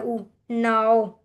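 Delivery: ऊ then नाओ drawn out very slowly; slow glide demo. Shown as a demonstration. Teacher showing how the glide makes नाओ, very slow. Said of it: "ये हमारे पास ओ sound है".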